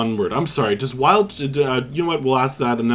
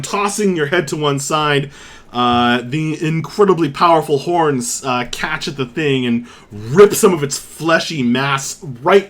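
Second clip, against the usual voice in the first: vivid scene setting, settling at the end; dramatic storytelling of a ramming attack; game master's combat narration. Acted. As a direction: savour the impact, then ease off.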